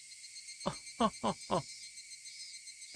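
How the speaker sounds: high breathy unvoiced giggle; mischievous girl's laugh. Little girl gloating over her traps, high giggling laugh. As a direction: giggle in triumph.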